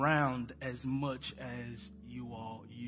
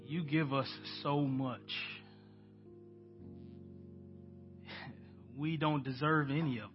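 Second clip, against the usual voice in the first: prayer. Acted. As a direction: pray aloud to the congregation, unhurried. Leads the church in prayer.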